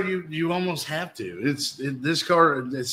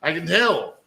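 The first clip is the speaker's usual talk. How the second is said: lightly voiced slick salesman pitch; a hint of a car lot salesman; used car salesman voice; 4 semitones higher than usual. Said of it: "in my best used car salesman voice".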